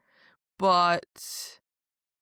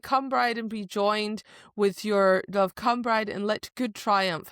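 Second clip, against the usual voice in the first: priestess call. Retold or imitated. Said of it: "It's like".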